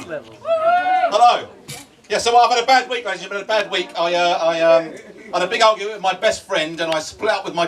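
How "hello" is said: high, squeaky mock greeting; squeaky hello. Comic greeting to the crowd in a squeaky voice. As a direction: pipe up a silly high hello.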